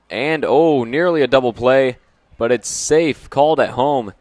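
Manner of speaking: sudden excited play-by-play shout; excited call. Real, not acted. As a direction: burst out as the play unfolds. Close play at home plate.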